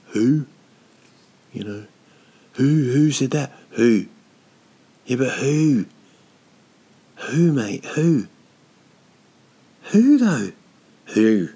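mock demanding who. Comedian mock-demands a source.

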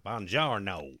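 loud, clumsy Italian greeting; bad Italian accent. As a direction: overdo the Italian, badly. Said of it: "do your Italian accent".

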